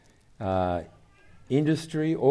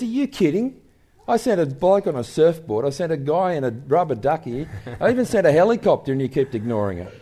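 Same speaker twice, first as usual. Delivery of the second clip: high, exasperated disbelief that settles; mock exasperation, quickening at the end; lightly voiced exasperated God; incredulous; 3 semitones higher than usual. God answering in the joke.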